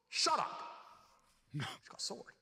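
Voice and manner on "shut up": high sharp mock shout. Telling a talking wife off, high mock shout. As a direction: snap it at a nagging wife. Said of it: "you're like".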